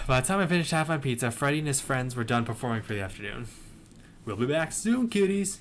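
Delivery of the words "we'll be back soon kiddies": lightly voiced Southern show host, higher on the last word; a hint of Southern twang, signing off to kids; southern accent. A narrator's reading. Freddie tells everyone the show pauses, light southern accent. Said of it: "in his southern accent".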